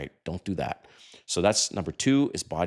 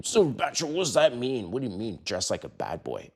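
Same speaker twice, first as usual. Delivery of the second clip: higher, puzzled question to the host; puzzled viewer; 4 semitones higher than usual. Pretend. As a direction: ask it like a confused viewer. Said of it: "You might be thinking".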